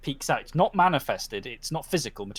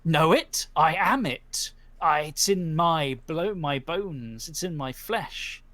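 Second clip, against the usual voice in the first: proud spirit; 2 semitones higher, slower than usual. Acted. Horse spirit speaks.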